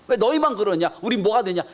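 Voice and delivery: high-pitched, aggrieved mock complaint; acted indignation. Disciples resent James and John's request, mildly angry. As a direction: protest as the slighted disciples. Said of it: "제자들이 막 화를 내잖아요".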